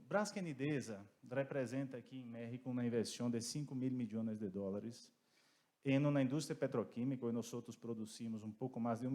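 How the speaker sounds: Spanish with a light Portuguese accent; Portuguese vowels creeping into Spanish; Portuñol accent. Real, not acted. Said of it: "perdón por mi portuñol".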